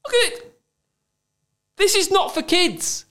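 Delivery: horrified at what's on screen; appalled. Real, not acted. Appalled looking at game.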